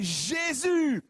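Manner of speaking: high loud call to Jesus. Acted. Blind man crying out to Jesus, high and loud. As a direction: shout his name across the crowd.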